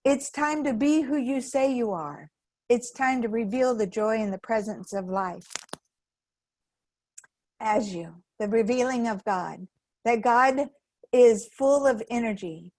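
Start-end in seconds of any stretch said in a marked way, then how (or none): 0.0-8.2 upbeat inner coach. Pretend. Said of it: "will wake you up and say".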